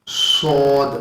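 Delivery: سود with a whistling s; whistled s demo. Shown as a demonstration. Teacher repeating the whistling sad letter, hissed. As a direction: hiss the s of سود. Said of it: "سیٹی کے ساتھ اس کی آواز نکلے گی".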